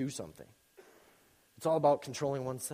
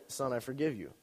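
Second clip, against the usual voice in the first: soft, gentle father voice; imitated forgiving dad; 3 semitones lower, 5 dB quieter than usual. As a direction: forgive him softly, as dad.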